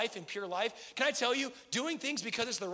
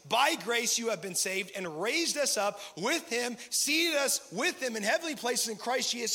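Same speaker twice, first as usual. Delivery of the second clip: proclaiming scripture. Acted. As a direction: read it like good news.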